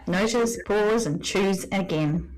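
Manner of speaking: 천천히 또박또박 말하는 단계들; 한 단어씩 천천히, 사이를 띄우며; slow steps. Shown as a demonstration. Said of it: "can you go over the four second gap".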